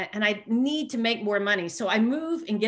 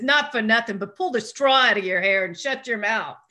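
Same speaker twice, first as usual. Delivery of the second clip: lightly put-on Brooklyn accent; a hint of a brusque Brooklyn local; 3 dB louder than usual. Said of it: "in this Brooklyn accent".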